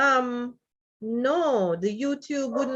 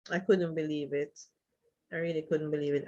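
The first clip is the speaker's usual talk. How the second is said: stunned and teary; 6 semitones lower, 7 dB quieter, faster than usual. Real, not acted. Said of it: "my eyes are welling up".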